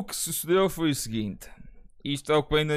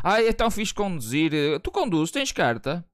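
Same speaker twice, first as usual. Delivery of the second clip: mock flirt; 4 semitones higher than usual. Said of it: "há maneiras subtis de perguntar".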